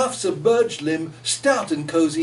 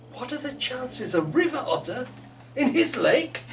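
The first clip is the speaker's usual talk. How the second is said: lilting poem reading, rising with the story. A narrator's reading. Author reading her heron poem aloud, lilting. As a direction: tell the tale in verse.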